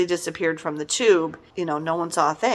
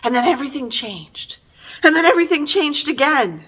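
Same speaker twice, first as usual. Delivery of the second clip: mocking; 6 semitones higher than usual. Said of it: "kept putting in these little cliffhangers".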